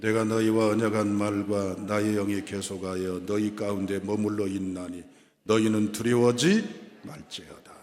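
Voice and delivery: low, level recitation of a verse; solemn monotone Bible reading; scripture reading. Real, not acted. Reads the verse aloud.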